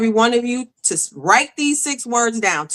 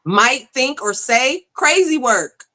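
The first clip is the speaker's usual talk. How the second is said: lightly voiced pastor, firm; 2 semitones higher than usual. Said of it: "He said".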